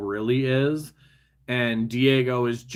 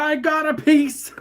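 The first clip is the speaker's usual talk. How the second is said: high, bright burst of triumph; excited; 6 dB louder than usual. Real, not acted. Builder cheers as a stubborn piece finally clicks, high yelp.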